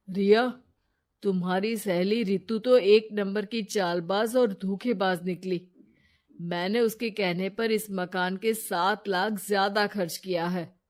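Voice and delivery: angry complaint to wife. Acted. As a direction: blame her with rising anger. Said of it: "Narendra को रिया पर गुस्सा आ जाता है".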